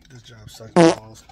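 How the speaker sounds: loud, slow, fed-up complaint. Real, not acted. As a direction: drag it out and hit it hard. Fed-up driver repeats complaint.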